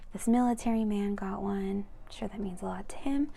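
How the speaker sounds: gentle unvoiced story whisper; whispered reading. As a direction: lean in and whisper the instruction.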